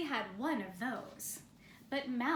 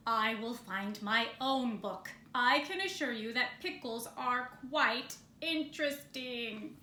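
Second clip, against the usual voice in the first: haughty bear voice; 3 dB louder than usual. Acted.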